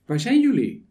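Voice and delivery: high, loud call into the garden; God calling out. Acted. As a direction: call out across the garden, searching. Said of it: "riep hij Adam en Eva".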